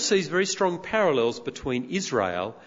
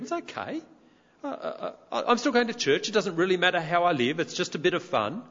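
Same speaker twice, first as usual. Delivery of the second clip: cocky voice; 3 semitones higher than usual. Retold or imitated. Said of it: "one of those sort of cocky people".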